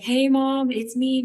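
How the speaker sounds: high, loud acted hello to mom; retold phone greeting. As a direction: call out brightly down the phone line. Retold phone call home to mom.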